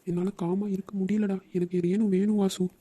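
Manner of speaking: slow, mildly tearful plea; tearful pleading. Acted. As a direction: struggle to calm down while crying. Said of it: "அழாத". (அழுதபடி மெதுவாகக் கெஞ்சல்)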